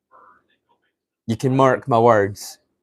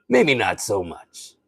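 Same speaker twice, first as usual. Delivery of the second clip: slow impersonation with a little more excitement; Rob Sterling; 2 semitones lower, slower than usual. Acted. Streamer retries the impression a little more excited, slow. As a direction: draw it out, livelier, still in character. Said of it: "He gets a little more excited".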